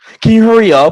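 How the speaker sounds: shrill, very high, loud, impatient snippy attitude. Retelling what a woman said to him at customer service, imitating a rude attitude. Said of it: "she was like really like with an attitude".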